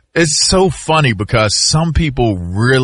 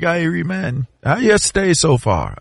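higher, lightly voiced Jamaican patois; imitating a Jamaican accent; 6 semitones higher than usual. Retelling the pilot's greeting to friends, light Jamaican accent. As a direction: mimic the Asian pilot's Jamaican lilt. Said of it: "And he was like".

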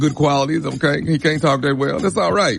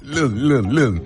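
imitating the boyfriend; 3 semitones lower, slower than usual. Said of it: "That's how he sounds".

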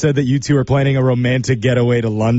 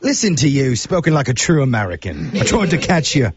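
put-on British accent. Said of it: "use my absolute worst British accent".

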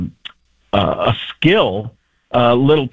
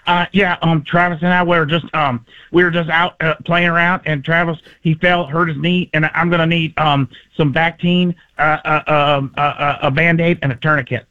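put-on halting little kid voice, slightly raised; Patrick Mahomes; 3 semitones higher than usual. Kid telling adults his friend got hurt, halting. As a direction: report the accident like a nervous child, full of ums. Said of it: "always sounds like a little kid".

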